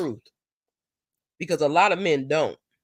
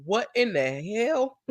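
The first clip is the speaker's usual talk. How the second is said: mock disbelief; 4 semitones higher than usual. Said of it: "You'll be looking like".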